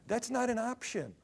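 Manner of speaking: high-pitched protest; incredulous refusal. Acted. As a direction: balk at it in a high voice. Counselees reject the verse.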